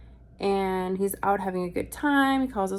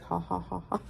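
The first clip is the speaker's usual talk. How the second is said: mock laugh; 5 dB quieter than usual. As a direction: mimic laughing at your own private joke. Imitates own subconscious laughing.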